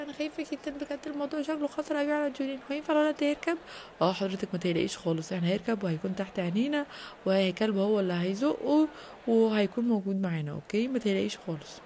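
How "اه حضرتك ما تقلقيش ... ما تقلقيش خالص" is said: lower, soft calming man's voice; reassuring trainer. Acted. Trainer calmly reassuring the anxious mother. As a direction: settle a worried mother down.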